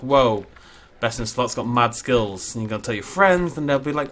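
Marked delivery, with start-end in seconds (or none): 0.0-2.5 impressed viewer. Retold or imitated. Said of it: "nobody talks like that".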